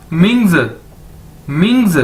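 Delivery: "मिंग्स" joined up, ming plus a buzzed z; model pronunciation. Shown as a demonstration. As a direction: drill "मिंग्स" as one falling word, pausing between. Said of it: "तो क्या बन जाएगा?".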